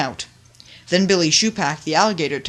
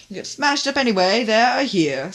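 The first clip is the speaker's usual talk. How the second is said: ruthlessly; 6 semitones higher, 4 dB louder than usual. A narrator's reading. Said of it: "said Top Hat ruthlessly".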